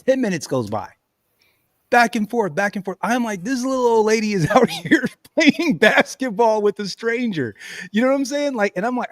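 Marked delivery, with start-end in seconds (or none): 3.4-7.5 laughing disbelief. Retold or imitated. Laughing while quoting own thought.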